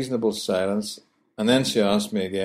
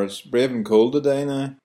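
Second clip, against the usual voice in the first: Belfast phrase; 4 semitones higher than usual. Shown as a demonstration.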